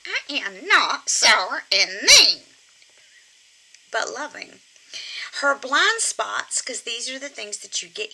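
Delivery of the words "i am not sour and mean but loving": squeaky ventriloquist dummy. Pretend. Puppet protests her flaws.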